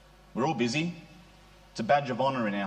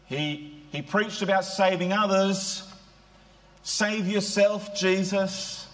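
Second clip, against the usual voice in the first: mocking jeer; 5 semitones higher, slower than usual. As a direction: sneer it up at the man on the cross. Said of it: "and jeered and said".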